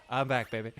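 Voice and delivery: lightly imitated smooth catchphrase; a hint of suave cartoon swagger; Bender. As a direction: toss it off coolly. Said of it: "it's just so smooth and funny".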